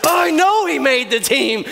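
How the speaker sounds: bitter mock "Oh, I know"; sarcastic jealous retort. You answering a friend about your brother, bitter sarcasm. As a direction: snap back with jealous sarcasm. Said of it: "you're like".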